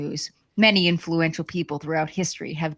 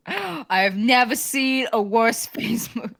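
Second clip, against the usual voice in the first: badly faked politician impression; Donald Trump; 3 semitones higher than usual. Host failing at a parody speech, shaky Trump attempt. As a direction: attempt the politician, breaking into a laugh. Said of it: "I can't do a Trump".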